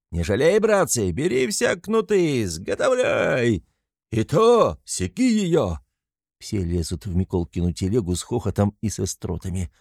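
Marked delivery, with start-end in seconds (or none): 0.1-5.8 high, slow urging yell; rally the lads to whip; rough shout. A narrator's reading. Mikolka urging the men to whip, high yell.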